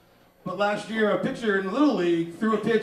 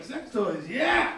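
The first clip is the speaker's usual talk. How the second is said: excited ladies; 3 semitones higher, much slower than usual. Retold or imitated. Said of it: "Ladies are all like".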